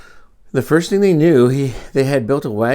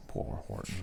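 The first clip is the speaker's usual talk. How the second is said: whisper; 19 dB quieter than usual. Real, not acted. Pity aside to children.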